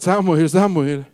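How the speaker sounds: slow loud call; slow loud divine call. Acted. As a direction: draw out the name, loud. God calls a fourth time.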